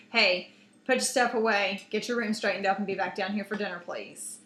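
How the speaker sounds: a mildly stern order, firm and curt; stern mom. Retold or imitated. Mom telling her daughter to clean her room, mildly stern. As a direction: lightly act a firm mom giving orders. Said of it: "you know, stern".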